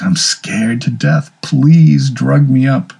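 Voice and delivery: slow, drawn-out begging, half mock; slow scared plea. Patient begs the doctor for sedation, slow mock-frightened plea. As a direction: plead slowly like a frightened patient.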